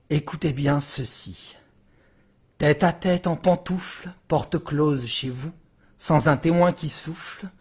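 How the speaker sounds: measured, declaimed verse with weighted pauses; dramatic reading of French poetry; poem recitation. Acted. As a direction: address the listeners as a warning, line by line. Reads a Hugo poem aloud.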